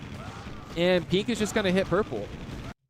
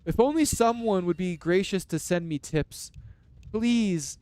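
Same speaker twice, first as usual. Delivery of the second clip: lightly voiced whiny plea, a bit higher at the start; mock pleading player; 3 semitones higher than usual. Commentator mocking a losing player begging for tips, mild whiny pleading. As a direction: beg for tips in a hint of a sulky loser voice. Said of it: "he'll be like".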